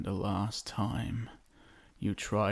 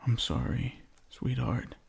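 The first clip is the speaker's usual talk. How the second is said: ordinary delivery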